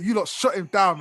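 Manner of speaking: laughing tease. Real, not acted. Teasing through laughter.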